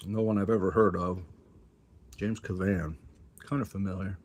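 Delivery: talking around a cough drop; words round a lozenge; mouth full. Real, not acted. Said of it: "I have a cough drop in my mouth".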